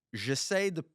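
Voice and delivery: put-on English-accented French, high and slow; mock anglophone French. Teasing his cohost by imitating his French, in a high, slow English accent. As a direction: ham up an English speaker struggling through French. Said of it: "Impersonate me".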